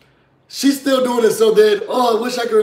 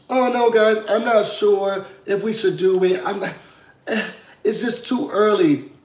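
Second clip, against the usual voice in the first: mock reluctant, halting delivery; hesitant objection; 4 semitones higher than usual. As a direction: imitate someone backing out timidly. Retelling a reluctant contestant's objection.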